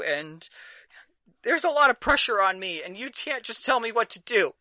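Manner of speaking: high, loud tearful pleading as the mom; sobbing mom. Acted. Mother sobbing at her son for leaving home. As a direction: wail it out like a hurt mother. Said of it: "she's just kinda sobbing".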